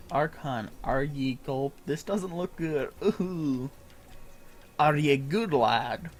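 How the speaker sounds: loud pirate brogue with ye and lad; hearty pirate calling out; pirate accent. Acted. Crewmate checks on the Archon, loud pirate brogue. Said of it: "I'm not gonna do, like, a lady pirate".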